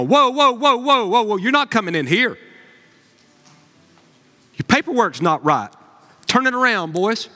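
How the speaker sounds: hammed-up guard waving them back; mock gatekeeper stop. Gatekeepers stopping people at gates.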